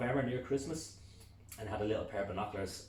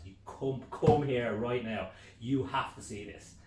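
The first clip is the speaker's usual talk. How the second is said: loud, slowed come here; urgent; 3 semitones higher, 6 dB louder, slower than usual. Retold or imitated. Husband urging wife outside, urgent. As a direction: urge her to come now.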